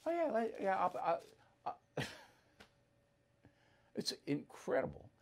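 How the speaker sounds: soft unvoiced laughing words; breathless disbelieving laugh; laughing in disbelief. Real, not acted.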